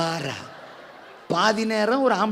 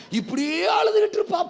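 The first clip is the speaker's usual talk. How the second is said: higher, wailing mock sob; mock crying wail; 9 semitones higher than usual. Preacher mimics Hannah weeping, high mock wail. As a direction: wail it like a woman always crying.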